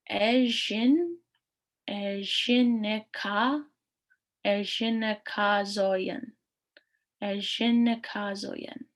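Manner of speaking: building Ejinekazoyan up piece by piece, slowly; broken down word. Shown as a demonstration. Teacher breaks the word into parts for students, slowly. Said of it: "let's break this down".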